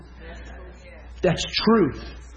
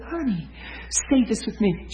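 sweet, higher, gentle coaxing; soft smiley tone, pitched up; 6 semitones higher, 3 dB quieter than usual. Retold or imitated. Minister coaxing a hurting woman, smiley and soft. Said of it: "I'm just smiley and soft with her".

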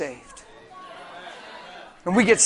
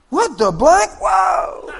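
amazed reaction; 10 semitones higher, 4 dB louder, much slower than usual. Retold or imitated. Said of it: "they're like".

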